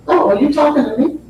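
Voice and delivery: quick, lightly amused "Oh, are you talking to me?" with a laugh in it; casual mock reply. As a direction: toss "Oh" off as if it's nothing. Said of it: "Nigella's response is".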